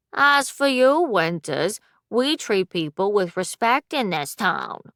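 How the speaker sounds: mock him in a whiny nasal voice; nasally mocking voice. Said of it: "Weston says in a nasally voice".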